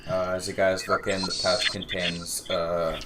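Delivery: put-on breathy old man wheezing; wheezy voice. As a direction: wheeze through every word. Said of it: "You're wheezing into your audio".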